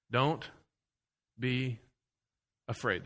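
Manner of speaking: soft, intimate reassurance; hushed. Acted. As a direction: lean in and hush it to the congregation. God's words, dropped to near hush.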